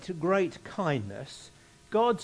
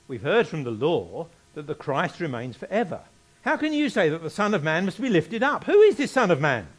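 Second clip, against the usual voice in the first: scripture reading; 5 dB louder than usual. Acted. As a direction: build the question to an emphatic finish. Reads crowd's question aloud.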